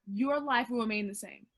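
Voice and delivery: "Your" picked out as the key word; stress on YOUR. Real, not acted. Driving home the correction to the post, stress on "Your". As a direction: repeat it pointedly, weight on "Your".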